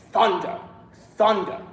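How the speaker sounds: "thunder" with a hard, abrupt first syllable; thunderous word. Shown as a demonstration. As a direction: strike the front of "thunder". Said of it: "doesn't sound like thunder yet".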